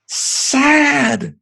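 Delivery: put-on high, small child answer; little girl voice. Daughter's answer voiced by dad.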